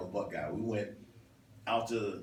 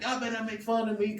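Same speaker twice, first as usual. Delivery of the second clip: mock warning; 12 semitones higher, 5 dB louder than usual. Voicing her playful warning to them.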